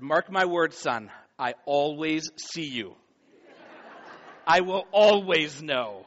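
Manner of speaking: slow, a touch of playful menace; dad teasing his son, slow and deliberate; knowing dad. Retold or imitated.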